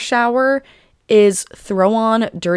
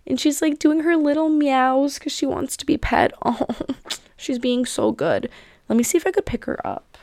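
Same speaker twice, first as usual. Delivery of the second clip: high, soft doting voice; fond cooing; 6 semitones higher, 3 dB quieter than usual. Real, not acted. Cat owner gushing as her cat asks for petting, fond cooing. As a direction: coo over an adorable pet.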